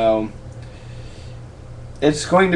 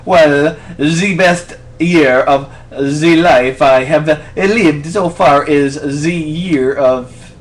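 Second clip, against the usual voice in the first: slow, drawn-out mock French accent; a light attempt at a French accent; 3 semitones higher, 4 dB louder, much slower than usual. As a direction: put on a hammy French accent. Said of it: "Answer this question in a French accent".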